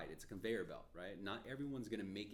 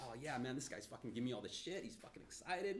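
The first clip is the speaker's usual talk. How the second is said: mock excitement; 4 semitones higher than usual. Mocking overexcited loan officer.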